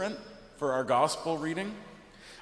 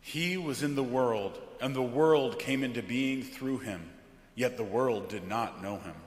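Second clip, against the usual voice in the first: measured, weighty liturgical reading; solemn scripture reading; 2 semitones lower than usual. Acted. Pastor reading John's prologue from the pulpit, solemn.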